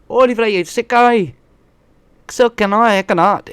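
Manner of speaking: high, loud mocking yell; mock shout. Mocking actors who think they're special, loud high yell. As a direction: bellow it like a cartoon outburst.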